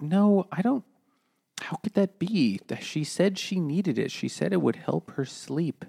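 high mock defence. Catalina's defence in retold story.

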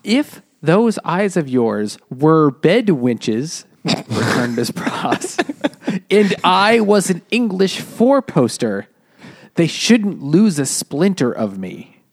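a hint of a defiant Miss Pross; reading Miss Pross. Miss Pross defying Madame Defarge, lightly voiced. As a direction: read it slowly with mild defiance. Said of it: "she says".

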